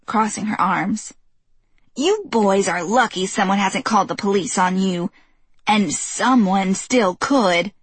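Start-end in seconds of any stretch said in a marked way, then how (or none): 2.0-7.7 put-on stern old woman. Old neighbor threatening.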